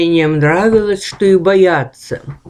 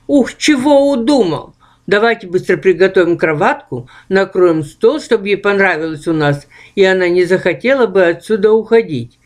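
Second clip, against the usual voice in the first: wise ghost voice; 2 semitones higher than usual. Acted. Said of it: "мудро заметил Ух".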